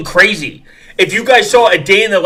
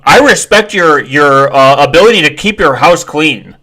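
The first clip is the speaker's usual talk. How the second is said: mocking commenter; 4 dB louder than usual. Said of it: "dumbasses like this that are like".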